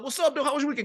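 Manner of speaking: bright, high, upbeat hello to a grumpy coworker; pep up a miserable coworker with a fist bump; cheery greeting. Retold or imitated.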